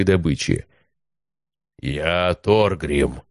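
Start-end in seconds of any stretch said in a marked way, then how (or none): 1.8-3.2 rumbling giant voice. Acted. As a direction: speak slow as a rumbling avalanche. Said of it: "голосом, похожим на рокот лавины".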